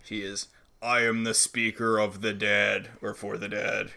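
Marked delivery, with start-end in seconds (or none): 0.8-2.9 lightly put-on alien proclamation; weird alien voice. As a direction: intone it like a strange alien. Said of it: "talking in a weird alien voice".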